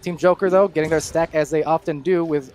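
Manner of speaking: live game commentary; play-by-play. Acted. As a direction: call the action as it happens. Live esports play-by-play casting.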